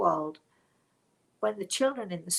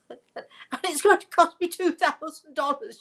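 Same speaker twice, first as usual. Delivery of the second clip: high, loud mock outburst of an exasperated mother; imitated yelling; 10 semitones higher, 10 dB louder than usual. Daughter berating grandson over her chipped tooth, imitated yelling. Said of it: "after she'd yelled at him".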